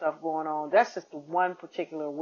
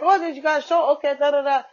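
much higher, louder mock Asian accent; imitated Asian accent; 9 semitones higher, 6 dB louder, faster than usual. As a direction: squeal the driver's Asian accent, high and loud. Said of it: "His accent was way too thick".

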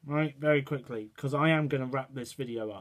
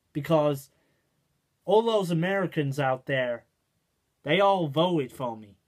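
put-on American accent. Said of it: "That's my American accent".

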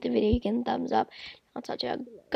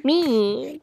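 mock scream; 6 dB louder than usual. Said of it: "This is me screaming".

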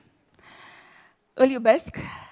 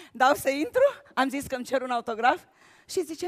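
normal talking voice

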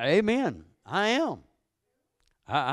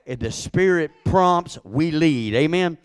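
preaching call; 4 semitones higher, 6 dB louder than usual. Real, not acted. Preacher calling to congregation.

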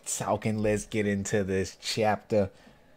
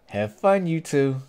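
excited send-off; 4 semitones higher than usual. Acted. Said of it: "He's excited".

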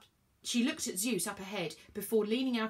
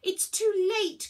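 loud, high cry of alarm; high-pitched panicked exclamation; despairing cry; 12 semitones higher, 7 dB louder than usual. A narrator's reading. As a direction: cry out that hope is gone. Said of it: "cried Virgo".

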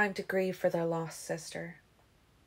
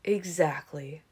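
whispered exactly; 2 semitones lower, slower than usual. Acted. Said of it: "Carlyle said".

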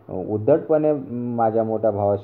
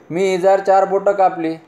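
higher, sheepish wife's voice; wife's confession; 10 semitones higher, 3 dB louder than usual. Acted. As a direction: admit it like a guilty young wife. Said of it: "पत्नी म्हणाली". (उंच आवाजात पत्नीची कबुली)

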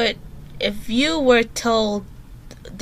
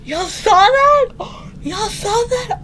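shaken disbelief; 11 semitones higher, 4 dB louder than usual. Real, not acted. Girl asks her viewers after the scare, shaken. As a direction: ask viewers, still reeling.

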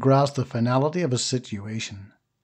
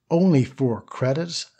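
slow, rising disbelief on "only"; astounded. Acted. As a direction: stretch "only four credits?" in mild amazement. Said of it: "He stood absolutely astounded".

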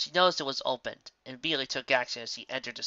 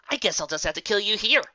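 angry threat; 8 semitones higher, 7 dB louder than usual. A narrator's reading. Rainbow threatening.

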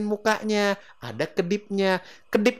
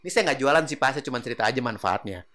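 relaxed sales pitch; 4 dB quieter than usual. Shown as a demonstration. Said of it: "agak nyender sedikit ke belakang".

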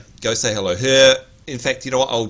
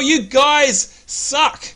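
mock complaint; 8 semitones higher, 4 dB louder, much slower than usual.

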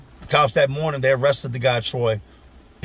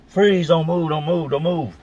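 higher-pitched mock police command; retold cop yell; 4 semitones higher than usual. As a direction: bark it like a cop jumping out of the car. Cops jump out, order freeze.

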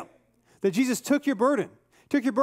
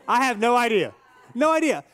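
emphatic; 4 dB louder than usual. Retold or imitated. Pastor retells answer, emphatic repeat.

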